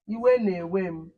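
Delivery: iwe na-ewe m said slowly again, iwe stressed; slow model phrase. Shown as a demonstration. Teacher repeating iwe na-ewe m slowly for the class. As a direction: drag each word out for the pupils to copy. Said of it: "How would you say".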